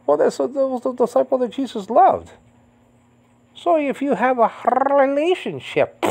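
real tearful voice, pitched very high; choked up. Real, not acted. Preacher on the disciple Jesus loved, choked up. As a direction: squeeze it out high through rising tears. Preacher moved to tears while teaching.

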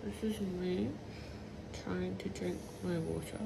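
talking through a swollen, sore mouth; words blurred by a swollen jaw. Real, not acted. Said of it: "It's really s-, sore down my mouth".

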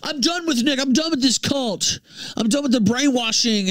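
high, whiny mock voice fading down; mocking whiny quote. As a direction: mimic a self-righteous snitch. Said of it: "He's like".

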